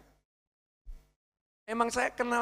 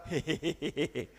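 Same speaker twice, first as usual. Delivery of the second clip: quiet, lower snicker; a little mischievous chuckle; soft giggle; 3 semitones lower, 9 dB quieter than usual. Acted. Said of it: "berperan jadi orang". (terkekeh pelan)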